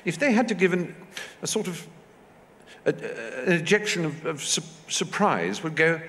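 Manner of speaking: high-pitched society lady explaining; imitated duchess. Duchess explaining class speech to actors, imitated as a lecturer.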